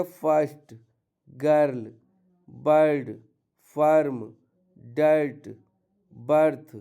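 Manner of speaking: "गर्ल" "बर्ड" said with the er sound; er sound demo. Shown as a demonstration. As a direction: say the er in each word clearly. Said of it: "आ पढ़ेंगे". ("अर" ध्वनि को हर शब्द में साफ़ बोलना)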